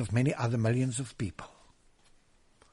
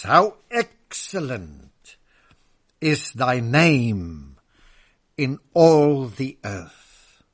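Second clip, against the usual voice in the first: louder and slow, each phrase drawn out; slow, loud proclamation; 6 dB louder, much slower than usual. Acted. Preacher to his congregation, declaiming the psalm slowly and loudly. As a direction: declaim the psalm with full force. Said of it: "Listen, as we hear the Holy Spirit".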